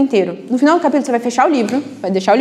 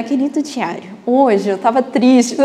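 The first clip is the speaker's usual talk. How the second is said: mock diary entry; slower than usual. Mocking the idea of a dear diary while explaining notes. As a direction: read it like a sulky diary entry, half-joking. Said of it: "não é um querido diário".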